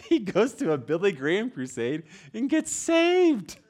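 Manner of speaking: high, loud, through laughter; laughing. Real, not acted. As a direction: crack up while telling the punchline. Laughing through the story's punchline.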